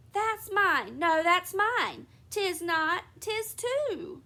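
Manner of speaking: put-on high, loud squabbling kids; quarrelling children. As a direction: fight over the sock like a child. Twins quarrel.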